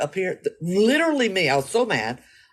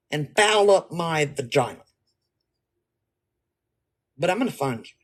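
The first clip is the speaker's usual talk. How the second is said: indignant threatening rant; angry rant. Acted. Acted rant at the grape.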